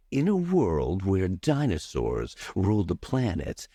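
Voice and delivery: deep, slow radio DJ voice with big resonance; movie trailer announcer. Shown as a demonstration. Coach demonstrating a trailer voice to his student, deep and slow. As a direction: boom it out like a film trailer narrator. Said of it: "I sound like the radio D J guy".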